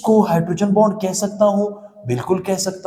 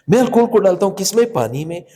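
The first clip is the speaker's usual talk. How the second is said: quicker repeat. Shown as a demonstration.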